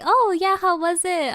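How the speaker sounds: a hint of eager questioner; retold interviewer. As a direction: ask brightly as the mimicked interviewer. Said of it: "they asked him".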